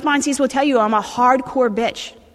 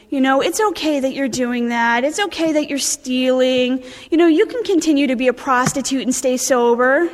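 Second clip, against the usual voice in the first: mock gentle. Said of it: "very, very gentle".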